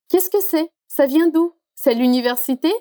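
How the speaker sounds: a touch of impatient excitement; mildly enthusiastic boy. Acted. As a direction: fire off questions like a keen kid, lightly. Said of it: "o garoto super entusiasmado".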